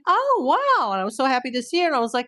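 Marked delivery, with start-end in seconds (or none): 0.1-0.9 retold delight.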